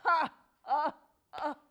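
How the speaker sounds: laughing. Acted. Ilmarinen laughs at the request.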